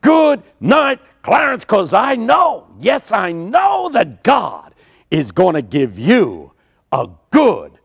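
high, slow shout rising to a promise; preacher shouting hope at the closed casket; triumphant preacher shout. Retold or imitated. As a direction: proclaim it like a gospel preacher at full force. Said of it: "he pointed to the casket and he said".

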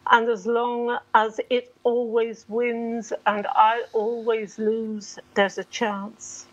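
measured poetry recital with held pauses between phrases; unhurried, evenly pitched poem reading. Acted. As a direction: read your own poem aloud, giving each listed image its space. Reads own poem aloud.

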